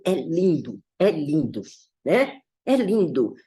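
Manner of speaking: put-on soft, low and fond, like praising your own child; tender repetition. Shown as a demonstration. A mother cooing over her own child, softly. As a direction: linger on each é lindo. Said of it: "depende dos olhos que você tá olhando".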